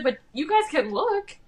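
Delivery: high-pitched, mock flustered offer; retold alarmed insistence, high voice; retold freaking out. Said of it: "she's freaking out".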